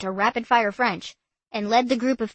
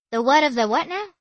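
baffled; 5 semitones higher, 5 dB louder than usual. Acted. Maggie baffled by Murray.

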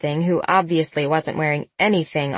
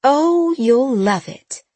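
high, loud, slow delighted gush; delighted aunt; 6 semitones higher, 4 dB louder, much slower than usual. A narrator's reading. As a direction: promise it with delight. Aunt enthuses.

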